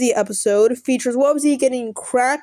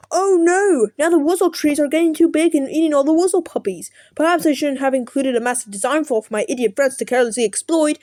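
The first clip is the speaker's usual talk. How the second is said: mock English accent; 3 semitones higher than usual. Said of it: "I'm gonna make impressions of the characters".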